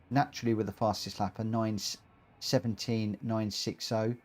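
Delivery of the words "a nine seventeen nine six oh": ordinary talk, nothing marked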